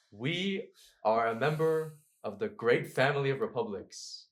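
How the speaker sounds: lightly voiced leader stirring up his troops; a hint of a general addressing soldiers; rallying speech to soldiers. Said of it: "would tell his soldiers".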